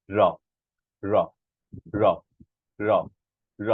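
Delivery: র repeated alone, tongue tip at the upper tooth roots; short front-tapped র, spaced out. Shown as a demonstration. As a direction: drill a plain dental-ridge র. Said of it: "সেটা উপরের পাটির দাঁতের গোড়ায় স্পর্শ করছে".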